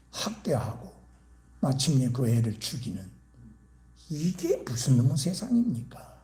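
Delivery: usual speaking voice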